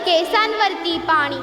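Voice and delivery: slow, measured verse with drawn-out words; poem recitation. Acted. Student reciting Kusumagraj's poem to an audience, slow poem recitation. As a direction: recite in slow lines, falling at phrase ends.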